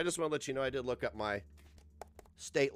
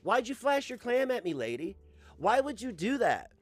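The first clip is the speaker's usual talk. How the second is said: high-pitched appalled protest; hammed-up scandalized questioning; mock dismay; 7 semitones higher, 3 dB louder than usual. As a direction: play the unwilling witness demanding why. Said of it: "And I'm like".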